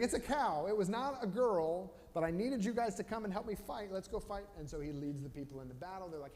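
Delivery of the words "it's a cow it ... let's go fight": high, loud hammed-up rallying cry; a king shouting to muster his army; excited king. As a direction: pump them up, loud and high. Saul rallying the tribes.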